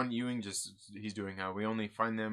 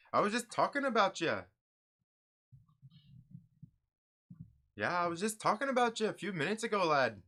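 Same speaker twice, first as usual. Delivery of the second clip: lightly put-on Scottish accent, pitched higher; a passable mock Scottish lilt; attempted Scottish-ish accent; 8 semitones higher, 4 dB louder than usual. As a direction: play a jolly Scottish priest in a half-hearted accent. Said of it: "Is that, is that the right accent?".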